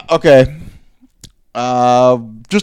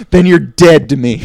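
mock stern judgment; 5 dB louder than usual. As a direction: overplay a disowning parent. Escalating the same joke.

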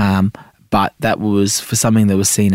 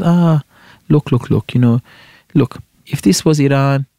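mother's voice; 4 semitones higher than usual. Retold or imitated. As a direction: play the mum scolding her son with a shrug. Mother voiced in retold conversation.

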